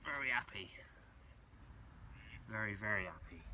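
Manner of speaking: breathy whispered delight; whispering. Real, not acted. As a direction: whisper it happily to yourself. Whispered joy over night catch.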